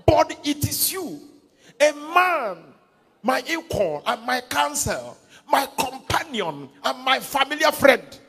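loud, high and slow shared reading of scripture; loud group reading. Real, not acted. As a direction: read it out together at full voice. Congregation reads verse aloud together.

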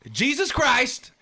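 slow, high, drawn-out rapper voice; impression of a rapper. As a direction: quote him slowly and high, drawn out. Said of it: "and I quote".

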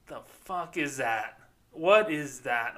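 slow, drawn-out disbelief; slow baffled what is that; incredulous. Real, not acted. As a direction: stretch it out, baffled. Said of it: "disbelief at the quote".

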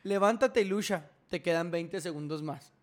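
booming motivational speech. Retold or imitated. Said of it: "Se mamó un poco".

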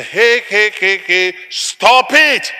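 high, forceful mock scolding; acted scolding. Acting out a scolding.

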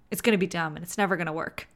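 fast, laughing through it; amused quick delivery. Real, not acted. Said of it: "laughing while saying".

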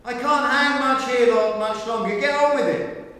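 high, loud, frantic urging; hanging man's mock panic at God; desperate plea. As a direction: beg to hurry up, hammed-up. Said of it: "hanging for dear life goes".

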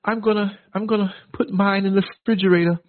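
lightly voiced high friend, laughing; imitating a friend. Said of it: "And Mister Scurry said".

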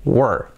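"were" as low falling "wur"; correct were. Shown as a demonstration. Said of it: "vais a decir". ("were" sin e, una sílaba)

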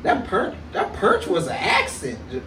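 put-on country accent. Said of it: "You know I got country accent".

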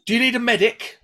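squeaky, insistent stranger offering help; fussing woman. Retold or imitated. Woman asks the fallen narrator about a medic, high and loud. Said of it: "she goes".

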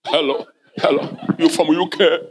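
lightly put-on British accent, teasing; mock foreign accent. Preacher mocking congregants who prefer slang, mock British accent. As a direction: imitate a locally acquired foreign accent. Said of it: "but it's a foreign accent".

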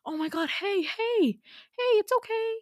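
high-pitched, lightly voiced concern; concerned soothing. Startled boy consoling a crying stranger, high soothing voice.

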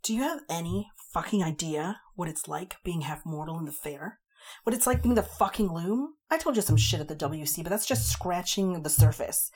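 fast, loud, rising to a high yell; tearful fairy raging at the human she loves; ranting. A narrator's reading. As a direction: escalate into a furious tirade. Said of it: "She kept ranting on".

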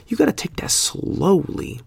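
high and drawn out; slow, playful emphasis. Real, not acted. Podcaster repeating advice about not rushing, slow high emphasis.

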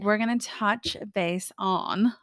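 put-on slow, playful British accent. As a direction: slip into a drawn-out British accent. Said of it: "I have a British accent now".

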